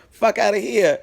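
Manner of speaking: high, sharp "fuck outta here" flung at him; retold angry outburst. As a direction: spit it out in disgust as you leave. Telling off the boyfriend.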